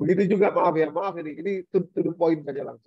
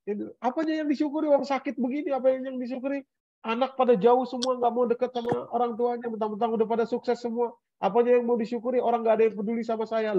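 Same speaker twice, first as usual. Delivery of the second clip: complaining sick elder; 5 semitones higher, faster than usual. Retold or imitated.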